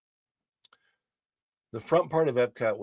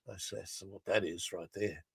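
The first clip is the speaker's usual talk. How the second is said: ordinary talk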